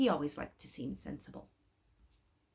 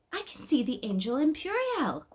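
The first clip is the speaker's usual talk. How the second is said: put-on excited boy; 8 semitones higher, 4 dB louder than usual. A narrator's reading. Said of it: "was all he said".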